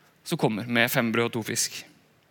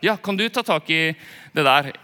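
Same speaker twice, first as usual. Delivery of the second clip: mock pushy colleague; 2 semitones higher than usual. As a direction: toss the job back at the one who spoke up. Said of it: "for da er det".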